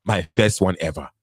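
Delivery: put-on African-accented suitor making excuses; put-on African man's accent. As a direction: plead your case in a mock African accent. Playing the married African suitor.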